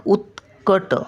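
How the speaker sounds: उत्कट with a short stopped t before क; light half t. Shown as a demonstration. Teacher showing the t, उत्कट split after a light t. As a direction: stop briefly on the t in उत्कट. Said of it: "तचा उच्चार बघा".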